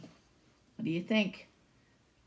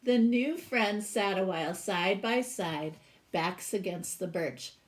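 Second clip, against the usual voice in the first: lively read-aloud storytelling voice; storybook reading; 4 dB louder than usual. Acted. Teacher reading a picture book to her class, expressive read-aloud.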